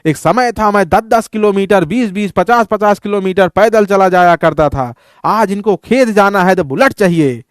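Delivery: a hint of a grumpy grandfather; grandfather's grumble. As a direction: play the grandfather complaining about today's kids. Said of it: "कहें".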